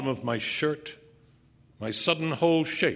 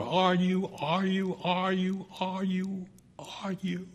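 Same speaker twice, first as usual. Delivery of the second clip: high, strained, relentless repetition; frantic insistence; 8 semitones higher, slower than usual. A narrator's reading. Narrator bent so close to Monica, frantic insistence. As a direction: repeat it obsessively, high, thinning toward a whisper.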